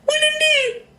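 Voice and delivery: very high cooing voice. Real, not acted. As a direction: coo at the pet up high. High voice to pet.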